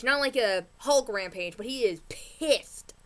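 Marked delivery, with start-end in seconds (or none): 1.6-2.9 running out of air mid-sentence; breathless, pushing the words out; out of breath. Real, not acted. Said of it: "Ran out of breath there".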